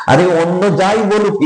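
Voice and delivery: Lalita teasing. Retold or imitated. Lalita chides Radha for forgetting, lightly high and teasing. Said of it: "বলে".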